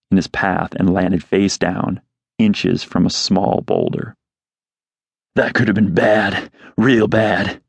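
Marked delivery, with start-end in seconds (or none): 5.4-7.6 grumbling under his breath. Acted. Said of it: "he grumbled".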